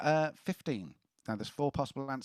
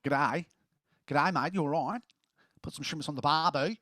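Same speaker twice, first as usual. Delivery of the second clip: hammed-up Aussie greeting, a bit louder; mock Australian accent; 4 dB louder than usual. Quizmaster teasing about Aussie slang, mock Australian accent. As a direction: play a cartoon Australian saying G'day mate. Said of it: "it's got a funny dialect".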